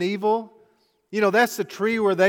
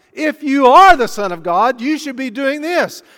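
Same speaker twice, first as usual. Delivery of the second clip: the devil's challenge, louder and higher; taunting devil rising; 5 semitones higher, 9 dB louder than usual. Acted. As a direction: goad him, building to a loud taunt.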